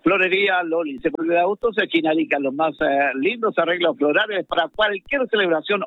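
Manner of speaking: rattled-off radio sponsor spot; sports-radio advert delivery; live ad read. Acted. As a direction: read the sponsor list out mid-match.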